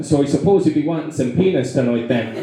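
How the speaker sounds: lilting put-on Irish accent; mock Irish accent. Comic chatting up a Californian, mock Irish accent. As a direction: play along in a fake Irish accent. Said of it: "Irish accent? What the fuck".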